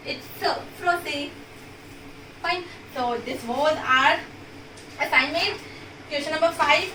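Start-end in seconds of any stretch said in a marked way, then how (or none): 0.4-1.3 "s" hissed as a soft C, then français; soft C sound. Shown as a demonstration. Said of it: "then the sound becomes soft".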